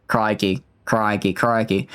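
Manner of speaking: practising an Aussie "crikey"; Australian accent from the back of the throat. Shown as a demonstration. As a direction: try out an Australian twang. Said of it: "It's, like, in the back of the throat".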